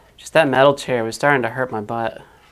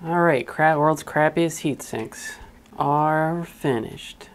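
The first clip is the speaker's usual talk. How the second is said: mock grand announcement; 4 semitones higher, much slower than usual. Mock grand announcement of hack job.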